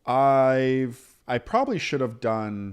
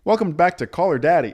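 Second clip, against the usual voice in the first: mock podcast host; 5 semitones higher, 7 dB louder than usual.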